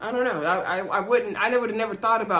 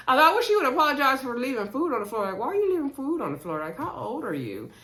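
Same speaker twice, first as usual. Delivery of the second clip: exasperated; 5 semitones higher, 3 dB louder, faster than usual. Real, not acted. Exasperated rant about food.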